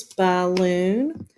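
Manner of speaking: "balloon" drawn out as two separate syllables. Shown as a demonstration. Teacher breaking balloon into two syllables, drawn out. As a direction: stretch and split "balloon" into ba-loon. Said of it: "we would say balloon".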